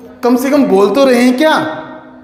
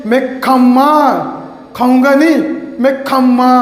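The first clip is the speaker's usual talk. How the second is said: put-on niece's baby talk; 3 semitones higher than usual. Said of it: "वो क्या बोलती है?".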